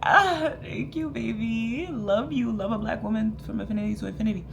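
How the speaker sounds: high, loud squealing thanks; delighted gushing. Retold or imitated. Vlogger replaying thanking a stranger, squealing delight. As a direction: gush with delight, rushing the end. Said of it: "And I was like".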